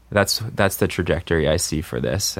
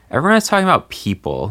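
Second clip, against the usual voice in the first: mock hype; 9 semitones higher, faster than usual.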